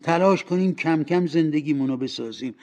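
emphatic lovers' reproach; reproachful. Acted. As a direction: press the broken promise on him. Fiancée reproaches him in a quarrel.

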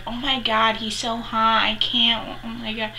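gushing mock fangirl rush; breathless run-on fan gushing, lightly put on. Shown as a demonstration. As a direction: imitate a swooning fangirl. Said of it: "like, a fangirl way of".

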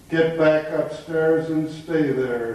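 slow, understated stern order; stern command. Acted. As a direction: order them off slowly, mildly stern. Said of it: "he commanded sternly".

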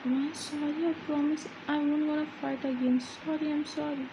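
lightly voiced young man begging forgiveness; begging apology.

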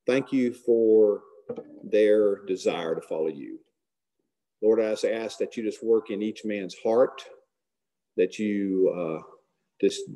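closing prayer. Acted.

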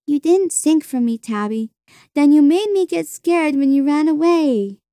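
put-on high, reproachful small-child voice; hurt little sister. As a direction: complain like a wounded little kid.

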